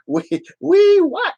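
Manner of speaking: very high, squeaky creature voice, slow and drawn out; a tiny puppet greeting its fans in a high squeak; Crotchy puppet voice. Acted. Puppet Crotchy greets the live chat viewers in a very high squeaky voice.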